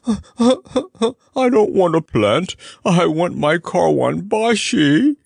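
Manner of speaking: a camel sobbing for its master, high and slow; broken-hearted sobbing. Acted. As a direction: cry like a heartbroken child. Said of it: "sobbed the Comfortable Camel broken-heartedly".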